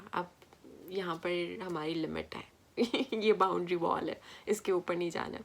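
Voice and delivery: calm firm limit. Shown as a demonstration. Mother to her child setting a boundary, low firm voice. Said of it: "آواز اپنی دھیمی رکھیں لیکن فرم ہو".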